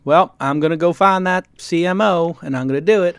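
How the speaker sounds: lightly put-on impression of a venture capitalist; a hint of a colleague's voice, played for fun; Bill Gurley impersonation. Host mimics an investor promising a founder help, light impersonation. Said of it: "That's my Bill Gurley impersonation".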